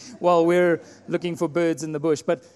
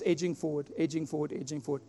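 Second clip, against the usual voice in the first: softer and softer on each edging forward; narrating his sneak toward the bird, dropping to a hush; fading creep; 3 semitones lower, 9 dB quieter than usual. Retold or imitated. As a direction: let the words tiptoe away into a hush.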